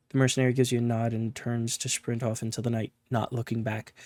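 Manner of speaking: steady storyteller reading a game's text; story narration. A narrator's reading. Reading the game's story to viewers, in narration voice. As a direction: read the scene like an audiobook. Reads interactive vampire story aloud.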